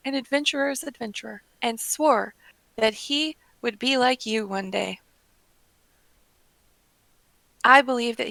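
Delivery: lightly acted heartfelt recollection; measured, sincere character reading; earnest Edda. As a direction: tell it with admiration for a hero. Reads Edda's tale of lost fiance.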